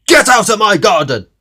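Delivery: loud, high indignant grumble; grumpy retort. Acted. Mister Grumpy snaps at Mister Happy, loud and cross. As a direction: snap it back in disgust. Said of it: "went on Mister Grumpy".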